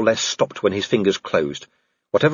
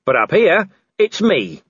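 raised, higher, slightly winded declaration; Vimes panting; 6 semitones higher than usual. A narrator's reading. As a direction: pant it out as a defiant claim. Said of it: "Vimes panted".

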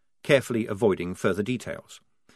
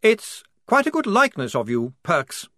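hoarse, high, slightly louder; 7 semitones higher, 3 dB louder than usual. Acted. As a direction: croak it out hoarsely. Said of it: "he said hoarsely".

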